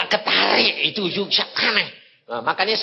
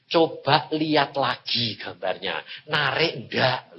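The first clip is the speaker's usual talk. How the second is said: voice of God; 4 semitones lower, slower than usual. Retold or imitated. God's voice retold in sermon.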